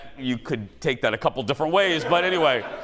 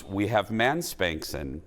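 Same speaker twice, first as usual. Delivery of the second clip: saleswoman; 7 semitones lower, 5 dB quieter, slower than usual. Retold or imitated. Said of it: "she goes".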